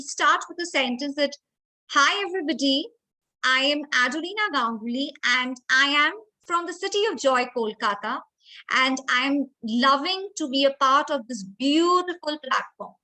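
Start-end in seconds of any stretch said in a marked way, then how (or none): 1.9-12.9 a touch of warmth and happiness, measured and controlled; controlled happy emotion. Shown as a demonstration. Speaker demonstrates a speech opening to judges or team, controlled happy warmth. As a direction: introduce yourself with happy warmth, leaning on "beautiful". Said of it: "do you see the control of emotion".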